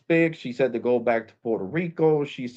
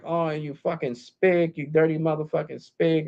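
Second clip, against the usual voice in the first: mad manager, retold; 4 semitones higher, 3 dB quieter than usual. Manager lashing out at caller, mildly angry retelling. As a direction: imitate her anger, dragging out the insult. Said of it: "that's when she got mad".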